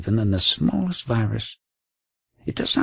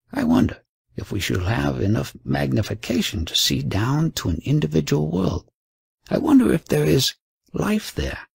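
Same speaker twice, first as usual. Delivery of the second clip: dreamy, rising wonder, climbing higher at the end; wistful; 4 semitones higher than usual. Acted. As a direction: speak with longing for what you cannot see. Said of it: "The superior spoke wistfully".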